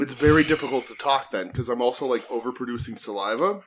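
talking with a burning tongue after hot wings; words through a scorched mouth; burned tongue. Real, not acted. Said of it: "the tip of my tongue is on fire".

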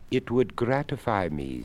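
a courteous creaky skeleton, unhurried. Acted. Skeleton speaks.

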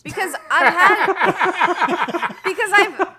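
helpless loud laughter breaking the words; high, drawn-out real laughing fit; cracking up. Real, not acted. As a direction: try to answer through big laughs. Breaks up laughing while answering.

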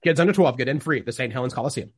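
fast small-town radio ad read. Pretend. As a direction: rattle off the sponsors like a local ad. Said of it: "I'll be your backup radio guy".

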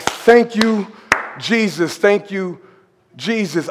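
softly repeated thanks to Jesus; quiet grateful prayer; mild praise. Retold or imitated. Preacher thanking Jesus after the stop, softly. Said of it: "I went into praise".

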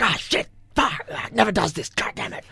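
mock freak-out, sputtering swears; imitating panic. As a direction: mimic a guy panicking over a broken app. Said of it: "He's freaking out".

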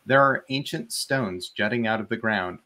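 measured game master's read-aloud; story narration. A narrator's reading. Game master reads the ruins excerpt to players, story narration. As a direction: narrate the scene with clear storytelling phrasing.

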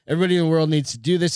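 fast, eager quote; excited quote. Retold or imitated. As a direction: rush it out with awe. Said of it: "he said".

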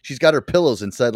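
ordinary talk, nothing marked

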